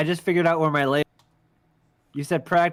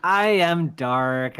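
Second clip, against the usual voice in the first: brooding dark voice; much slower than usual. Pretend. Playing the dark Xander.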